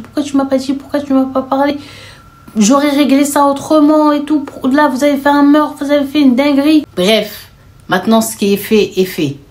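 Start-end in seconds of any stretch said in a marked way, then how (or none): 0.0-6.8 rising angry outburst, higher and louder; indignant shouting brother; outraged brother. Retold or imitated. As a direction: blow up at your sisters.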